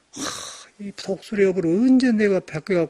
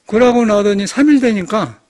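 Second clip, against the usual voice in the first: normal talking voice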